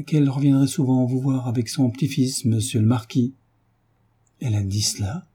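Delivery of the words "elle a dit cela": s'écriant en tremblant. A narrator's reading. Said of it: "s'écria Marie, tremblant".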